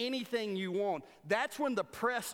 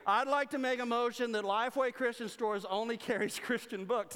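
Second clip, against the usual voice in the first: mock motion speaker; 6 semitones higher, 3 dB louder than usual. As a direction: lightly mimic the same delegate, with a laugh breaking in. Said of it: "So this guy stands up every year".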